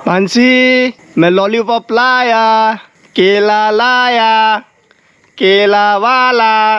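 high, drawn-out call to his daughter; sing-song call through the door. Real, not acted. Dad calling his little girl at the door, high and slow.

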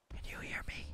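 whispering; breathy whisper check. Real, not acted.

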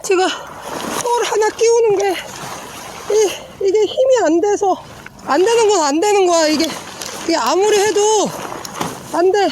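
out of breath from straining; panting while pushing hard; heavy breathing. Real, not acted. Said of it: "숨 좀 고르고".

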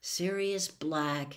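slow, tired sigh of a name; Harry, tired of explaining, names the suspect; weary. Acted. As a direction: drag the name out, worn down. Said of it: "Harry said wearily".

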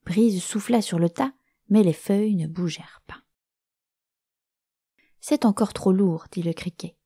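gentle storybook read for little ones; reading to children. A narrator's reading. Storyteller reading a bedtime tale to children, gentle.

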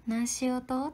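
light Hakata dialect lilt; casual question in Hakata dialect. Shown as a demonstration. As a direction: offer a short Hakata-ben sample question. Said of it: "博多弁".

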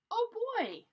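high, loud, thrilled little cheer; excited. A narrator's reading. Annie is thrilled to go with the ninjas, excited. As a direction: burst out with eager delight. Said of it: "like she's excited".

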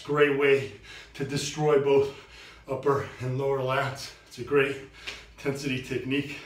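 panting after a hard set; winded, breathing hard. Real, not acted. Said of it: "I'm so out of breath".

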